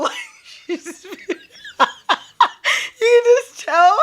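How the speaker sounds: high, squeaky, helpless laughter; words strangled by real laughing fits; crying with laughter. Real, not acted. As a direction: keep breaking up mid-sentence. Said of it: "I'm so crying".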